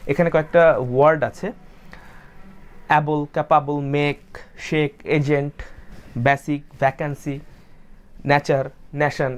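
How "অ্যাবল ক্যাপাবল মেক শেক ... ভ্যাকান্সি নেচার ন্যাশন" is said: অ্যাবল, ক্যাপাবল, মেক with short unglided first vowels; common local pronunciation. Shown as a demonstration. Teacher reading the word list as learners usually say it, common local pronunciation. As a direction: read অ্যাবল, নেচার, ন্যাশন with a flat "a" and no ei glide. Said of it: "আমি যেভাবে বললাম সেভাবে naturally বলে".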